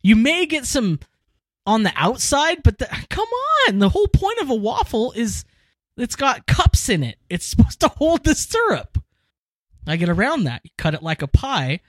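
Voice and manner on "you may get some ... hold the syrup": high-pitched, worked-up food rant; impassioned. Real, not acted. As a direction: argue it with rising, exasperated conviction. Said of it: "something I feel very strongly about".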